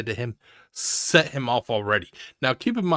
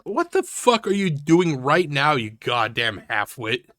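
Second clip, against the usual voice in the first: angry outburst; 2 semitones higher than usual. Acted. Commentator erupts at streamer.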